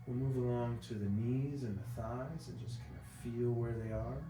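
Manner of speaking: calm, unhurried relaxation-exercise voice; guided body scan. Acted. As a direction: guide them gently through each breath. Leads breathing body scan.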